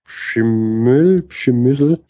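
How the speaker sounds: "Schimmel", "Schimüsel" as two rising guesses; tentative pronunciation. Shown as a demonstration. Podcaster guessing at a difficult foreign name, tentative. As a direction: try "Schimmel, Schimüsel", each ending on a questioning rise. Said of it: "wie auch immer man das ausspricht".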